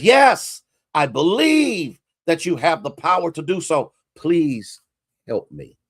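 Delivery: high cry of yes, fading to a spent plea; cling on and beg; high pleading. Retold or imitated. Man on cliff pleads again.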